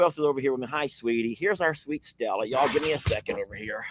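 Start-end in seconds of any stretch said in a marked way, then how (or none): 0.7-2.5 soft pet talk. Real, not acted. Greeting the dog tenderly.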